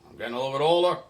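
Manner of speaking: a hint of an old man's rasp, quick at first; lightly voicing old Raz, rasping and brisk; raspy old Raz. Old boatyard owner asks Dave to take over, lightly raspy. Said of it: "told me in his raspy voice".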